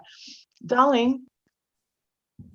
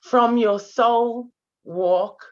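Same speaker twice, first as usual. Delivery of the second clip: tearful pride; 4 semitones lower than usual. Real, not acted. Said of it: "I'm already crying".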